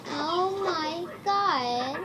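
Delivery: put-on slow, drawn-out valley girl gush; lightly voiced girly oh my God; girl voice trolling. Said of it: "girl voice trolling".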